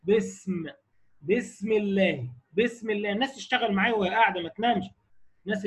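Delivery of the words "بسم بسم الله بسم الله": slow بسم with an airy, lengthened س; demonstrating hams. Shown as a demonstration. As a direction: let breath flow through the س in بسم. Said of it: "وتنطق بقى حروف الهمس". (إظهار همس السين في بسم)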